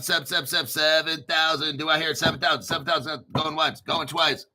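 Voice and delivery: rapid auctioneer chant, bidding up; mock auction call, playful. Mock gold price auction.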